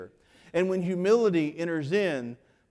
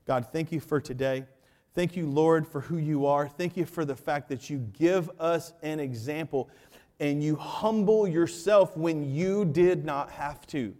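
closing prayer. Acted. Pastor praying over the congregation, earnest. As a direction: pray sincerely over the church.

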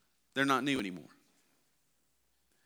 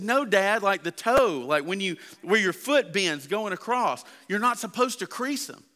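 explaining son; 5 semitones higher than usual. Retold or imitated. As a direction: set dad straight. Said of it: "He said".

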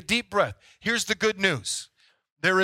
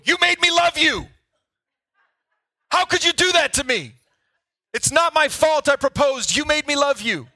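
mock lovesick whine; 9 semitones higher, 6 dB louder than usual. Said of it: "come up to you and go".

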